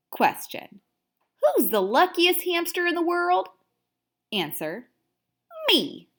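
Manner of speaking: a proud little hamster telling his diary; cheery hamster narrator. Acted. Smug hamster reading his diary aloud.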